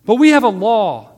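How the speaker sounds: high, forceful shouted objection; yelling back. A narrator's reading. Priests arguing with Pilate over the law, yelling. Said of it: "they yelled back".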